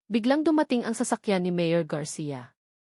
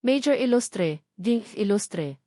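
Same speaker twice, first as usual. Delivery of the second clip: soft menace; slower than usual. Acted. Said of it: "boses ay malumanay ... puno ng pagbabanta".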